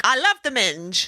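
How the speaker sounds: lightly put-on judge voice; a singer's voice. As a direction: quote it in a big judge's voice. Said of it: "in your singer voice".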